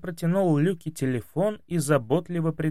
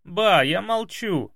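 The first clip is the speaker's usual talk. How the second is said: giggling; 6 semitones higher, slower than usual. A narrator's reading. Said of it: "захихикал внук".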